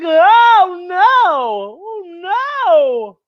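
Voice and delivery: high squeaky cartoon panic; mock panicked monsters. Monsters panicking at Buffy's roar, high mock fright. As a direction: cry out like frightened little monsters. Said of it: "all the monsters are like".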